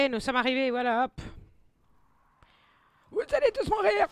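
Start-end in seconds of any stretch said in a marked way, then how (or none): 3.1-4.1 high, loud hammed-up villain cry; playful gamer menace; mock villain threat. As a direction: threaten them like a cartoon baddie. Threatening enemies in game.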